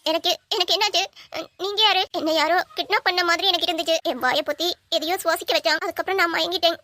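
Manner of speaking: high, panicky and disoriented; a dazed girl fearing what happened to her; frightened confusion. Acted. Kidnapped girl waking up, asking her rescuer who he is, high and frightened.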